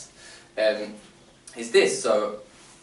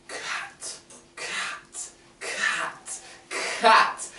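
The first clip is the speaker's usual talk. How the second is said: speeding up; 12 semitones higher, much slower than usual. Shown as a demonstration. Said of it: "Let's say it faster and faster".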